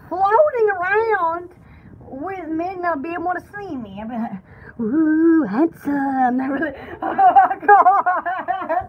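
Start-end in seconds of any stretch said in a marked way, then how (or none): 4.8-6.4 lower, teasing ghostly come-on; flirting ghost. Pretend. Invisible ghost flirting with men, playful ghostly croon. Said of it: "I'd be bored flirting, fl-, flirting around".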